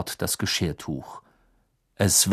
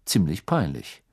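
grim; 6 semitones lower than usual. Acted. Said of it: "sagte Mister Diggory verbissen".

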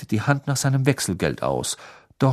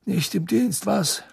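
cheerful greeting; 10 semitones higher, slower than usual. A narrator's reading.

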